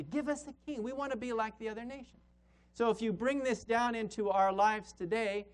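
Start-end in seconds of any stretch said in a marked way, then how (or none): 0.0-2.2 demanding crowd. Retold or imitated.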